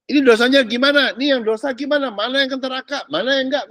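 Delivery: mock the religious asking about sin; religious folk fretting. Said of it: "kalau ngomong".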